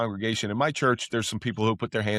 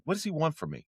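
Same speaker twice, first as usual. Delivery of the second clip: retold indignation; 7 semitones higher, 5 dB quieter than usual. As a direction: replay your annoyance in a raised pitch. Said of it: "I would get mad".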